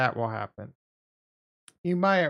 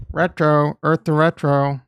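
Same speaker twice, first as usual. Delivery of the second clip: calling out much louder; 11 dB louder than usual. Real, not acted. Streamer shouts to silent viewer, calling out loud. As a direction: shout his name across the room.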